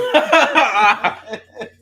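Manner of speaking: high, loud burst of laughter. Real, not acted. Co-host amused about the yelling, laughing loudly. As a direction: crack up out loud.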